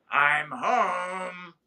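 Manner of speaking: bursting in and shouting home; calling out. Retold or imitated. Husband bursts in, calls out.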